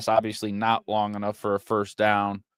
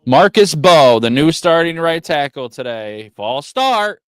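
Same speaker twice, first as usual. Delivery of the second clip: angry rant; 5 semitones higher, 10 dB louder than usual. Real, not acted. Fan ranting about false start.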